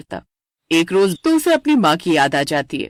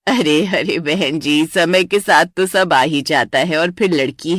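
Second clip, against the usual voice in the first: lightly lowered matron voice; groom's mother; 5 semitones lower than usual. Acted. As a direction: reassure the other family, unhurried.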